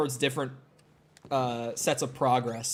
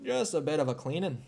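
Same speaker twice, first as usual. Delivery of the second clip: softer, hammed-up Canadian accent; exaggerated Canadian accent; 5 dB quieter than usual. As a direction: overdo the Canadian vowels quietly. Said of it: "I'm exaggerating it too hard".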